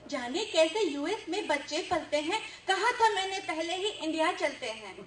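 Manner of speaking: rhythmic, projected comic verse; humorous poem recital. Acted. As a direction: act out the couple's exchange in verse. Recites poem, voicing husband and wife. (हास्य कविता-पाठ)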